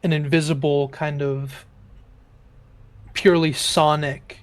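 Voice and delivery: slow, measured scene narration; game master narration. A narrator's reading. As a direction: paint the spell's effect slowly. DM narrating spell effects.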